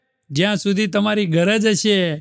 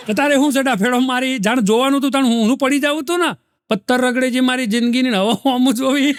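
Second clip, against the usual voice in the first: exasperated rant; 4 semitones higher, faster than usual. Retold or imitated. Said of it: "પેલો રમેશ એ ખણવા માંડ્યો".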